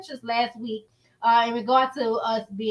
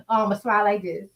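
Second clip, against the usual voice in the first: closed smile. Shown as a demonstration.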